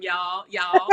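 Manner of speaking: high, playful Southern "y'all, y'all"; drawn-out Southern "y'all". Shown as a demonstration. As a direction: show off the Southern drawl on "y'all". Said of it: "that's where the Southern drawl is coming from".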